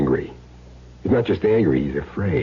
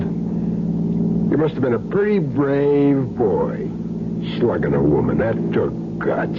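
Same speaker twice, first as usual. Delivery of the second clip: slow, mocking praise that drips contempt; sarcastic taunt; 5 semitones higher than usual. Hitman mocks the wife-beater in the car, sarcastic. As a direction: draw out the fake compliment, sneering.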